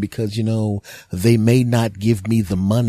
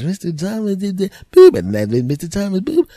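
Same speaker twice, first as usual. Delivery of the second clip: garbled message; 11 semitones higher, 7 dB louder than usual. Retold or imitated. Garbled voicemail imitation.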